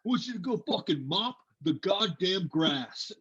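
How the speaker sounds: high mock drill sergeant voice; barking sergeant. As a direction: bark the order like a sergeant.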